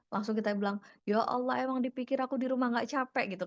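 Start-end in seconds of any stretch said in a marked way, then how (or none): 1.0-3.4 raised-pitch acted spousal complaint; mock exasperated comeback; indignant one-upping. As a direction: toss it back as an aggrieved retort. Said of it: "Kita langsung kayak auto adu nasib".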